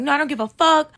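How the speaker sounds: high mimicked I-don't-care snap; defiant friend. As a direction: throw back a mock-defiant refusal. Friend refuses to calm down.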